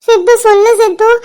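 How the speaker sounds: pleading through tears, voice catching; crying plea. Acted. Mother begging Sidhu for news of her daughter, crying. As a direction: beg for news while sobbing.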